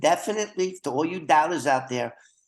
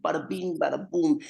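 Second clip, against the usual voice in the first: New York Italian; 2 semitones higher than usual. Retold or imitated. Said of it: "I can even imitate the Italians".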